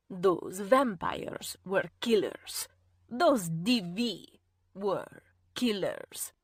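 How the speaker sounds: low, slow, hushed command; stern Irene. A narrator's reading.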